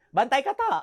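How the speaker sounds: light Ilonggo singsong; mild Ilonggo lilt; Ilonggo warning. Retold or imitated. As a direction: tease the threat Ilonggo style. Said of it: "Binawarningan ka na".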